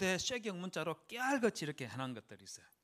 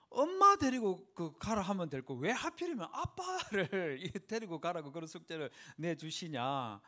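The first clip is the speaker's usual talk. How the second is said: grumbling; 3 semitones higher, 4 dB louder than usual. Retold or imitated. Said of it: "좀 투덜투덜 하다가".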